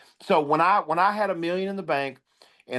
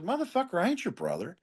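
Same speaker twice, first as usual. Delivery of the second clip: angry retort; 4 semitones higher, 6 dB quieter than usual. Retold or imitated. Telling off the friend who forgot the funeral, sharp angry retort.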